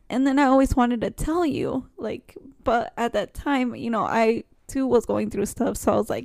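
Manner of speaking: holding back tears, voice tight; fighting tears, breaking into a whisper; trying not to cry. Real, not acted. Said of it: "Sorry, I'm trying not to cry".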